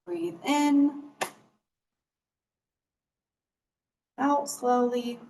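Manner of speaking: slow, drawn-out breathing cues; guided breathing. Real, not acted. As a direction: pace each cue to a long breath. Leads a breathing exercise.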